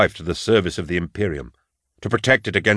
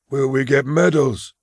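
higher, eager and hopeful; eagerly; 6 semitones higher than usual. Acted. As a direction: asks again like a child hoping for a prize. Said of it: "repeated eagerly".

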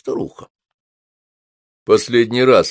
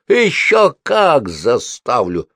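slow, louder fierce threat; fury of breaking up sisters' fights; furious grating; 5 semitones higher, 5 dB louder, much slower than usual. A narrator's reading. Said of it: "проскрежетала в ответ Софи с той яростью". (с яростью проскрежетав)

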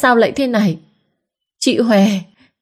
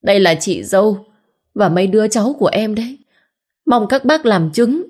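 tearful complaint; 3 semitones higher than usual. Acted. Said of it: "vừa khóc lóc, vừa kể khổ".

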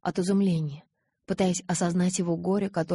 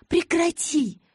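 sharp cry, much higher and louder; girl cutting off her lover's self-blame; stop it; 10 semitones higher, 5 dB louder, much slower than usual. Acted. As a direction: yell at him to stop. She cuts off his self-blame.

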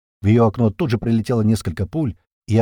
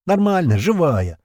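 grunting; 7 semitones higher, 4 dB louder, slower than usual. A narrator's reading. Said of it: "прокряхтела она".

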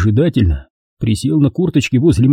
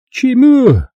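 hoarse rasp; 13 semitones higher, 4 dB louder than usual. A narrator's reading. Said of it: "прохрипел он осевшим голосом".

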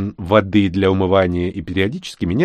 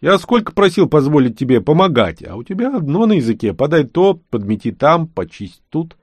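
indignant; 6 semitones higher than usual. Acted. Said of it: "возмутился я".

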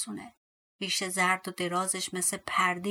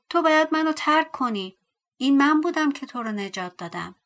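raised, higher voice, insisting; angry demand; 5 semitones higher, 7 dB louder than usual. A narrator's reading. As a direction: order him off as the one owed a favour. Angry Tom orders dwarf away. (دستوری و عصبانی)

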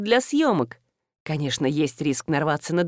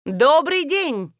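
shouting greeting; 8 semitones higher, much slower than usual. A narrator's reading. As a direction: call it out big to the studio. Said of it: "закричала стройная женщина".

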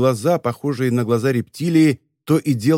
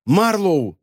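higher, restrained call; attempted shout; 5 semitones higher than usual. A narrator's reading. Blinded boy tries to call his friend, restrained cry. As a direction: try to cry out, not at full force. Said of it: "попытался крикнуть".

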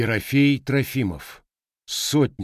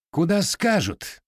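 slow, higher, cutting it off; lieutenant shuts down the question, curt; curt retort; 9 semitones higher, slower than usual. A narrator's reading. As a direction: snap back, end the talk. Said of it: "отрезал поручик".

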